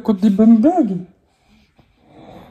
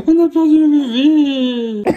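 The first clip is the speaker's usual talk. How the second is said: en riant; 5 semitones higher, slower than usual. Real, not acted. Bébé tombé, papa rit.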